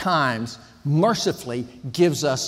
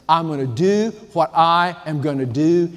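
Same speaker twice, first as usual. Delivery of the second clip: firm, defiant statement of self-will; stubborn declaration. Shown as a demonstration. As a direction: say it as a stubborn boast. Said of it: "That is the attitude of sin".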